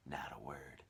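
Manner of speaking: soft hushed whisper; whispered warning. A narrator's reading. Old man hushing James about the aunts, whispered. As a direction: hush him with a secret.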